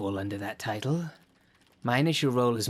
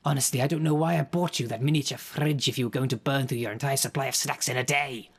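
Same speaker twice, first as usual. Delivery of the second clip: exasperated scolding; 3 semitones higher, 4 dB louder than usual. Acted. Continues scolding underling.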